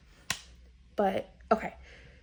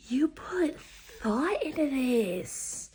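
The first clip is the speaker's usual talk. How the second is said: whispered aside; 5 semitones higher, much slower than usual. Real, not acted. Reader whispering praise of the author's magic system. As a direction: murmur it to yourself, impressed.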